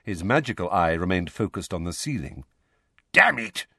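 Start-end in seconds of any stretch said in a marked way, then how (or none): 3.1-3.7 sudden higher, louder outburst; a burst of gruff annoyance; angry curse. A narrator's reading. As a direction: curse in irritation. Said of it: "he added angrily".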